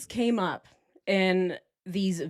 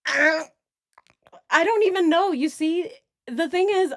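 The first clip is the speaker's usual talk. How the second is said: high, put-on voice; trying a voice; 9 semitones higher, 3 dB louder, slower than usual. Shown as a demonstration. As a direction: pitch it way up in a silly test voice. Still trying out different voices.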